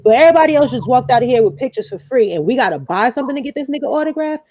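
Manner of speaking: put-on a twelve-year-old telling off the store guy, indignant; retold angry outburst. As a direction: replay the argument quick and indignant. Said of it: "I went off".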